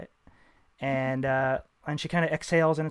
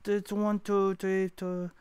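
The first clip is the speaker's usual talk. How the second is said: clerk lady; 4 semitones higher, 4 dB louder than usual. Acted.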